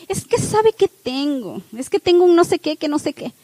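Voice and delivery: put-on Guadalajara accent. Preacher imitating Guadalajara women in a mild Guadalajara accent. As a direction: draw it out like a woman from Guadalajara. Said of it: "las de Guadalajara sí hablan".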